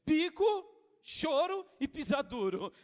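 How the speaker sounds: a hint of a child's huff; mock tantrum. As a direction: list the tantrum with relish.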